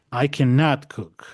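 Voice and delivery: slow "I cannot cook", weight on "cannot"; stress on cannot. Shown as a demonstration. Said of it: "Mucho más del énfasis en el negativo".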